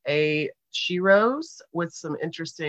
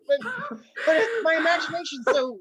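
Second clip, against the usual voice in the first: hammed-up overexcitement; 13 semitones higher, 7 dB louder than usual. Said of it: "I'm like".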